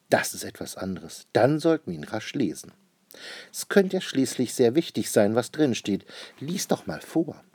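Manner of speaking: a lightly voiced cheerful dad, suddenly curious; a hint of a sly, eager papa; Papa Wappa. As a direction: coax the child to read it aloud.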